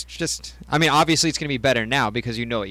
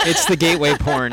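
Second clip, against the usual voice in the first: laughing; 4 dB louder than usual. Real, not acted. Laughing while saying it.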